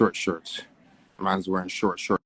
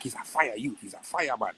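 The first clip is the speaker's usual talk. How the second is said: Jamaican patois praise; 4 semitones higher than usual. Pretend. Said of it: "I'm like".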